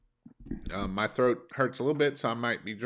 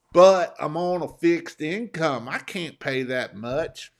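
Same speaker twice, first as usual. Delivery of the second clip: slow, whiny mock customer, louder at first; hammed-up poor-mouthing customer; mock complaining customer; 3 semitones higher, 5 dB louder, slower than usual. Mocking a rich customer pleading a fixed income, slow whine. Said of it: "my favorite saying is".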